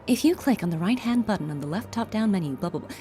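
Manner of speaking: informational read. Shown as a demonstration.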